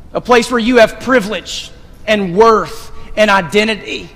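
slow, swelling preacher cadence; preaching build. Acted. Pastor preaching grace to the church, slow and swelling. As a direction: lift each phrase toward the altar call.

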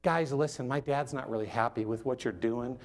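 low, soft, overly gentle complaint; barely bothered, politely keeping it down; mock-mild Jesus. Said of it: "he didn't just lightly".

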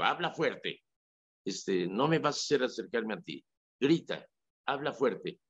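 teacher urging confirmation students to speak up, projecting; projected teacher voice. Retold or imitated. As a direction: push it to the back row like a coach. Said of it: "estoy proyectando la voz".

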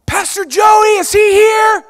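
loud high yelling demand; mock harasser yell. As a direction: shout it like an unhinged visitor banging at the door. Harasser shouting at the office.

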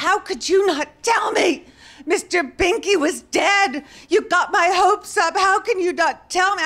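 shouted high and loud, slowed and accusing; angry shout. Retold or imitated. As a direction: yell it at her like a betrayed pet owner. Grieving owner confronts the teller.

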